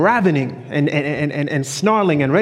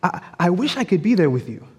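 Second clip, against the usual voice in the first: higher, pleading wife's voice, lightly acted; a husband voicing his wife's tearful longing to be at church; 5 semitones higher than usual. A hint of the tearful wife, pitched higher. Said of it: "She's saying".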